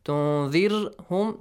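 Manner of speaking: تنذرهم with a thin, light "r" after the "i". Shown as a demonstration. Teacher showing ra after kasra, تنذرهم with light "r". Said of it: "It is lightly pronounced".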